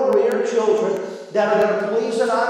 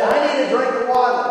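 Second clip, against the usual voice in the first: put-on slightly high, quick kid voice; lightly voiced little boy asking a favor; boy's request; 3 semitones higher, faster than usual. Boy to dad from bed, quick higher-pitched plea.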